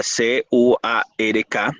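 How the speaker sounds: C U A R K named one letter at a time, evenly; spelled out letter by letter. Shown as a demonstration. Teacher spelling quark for students, letter by letter. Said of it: "Se recomienda escribir quark".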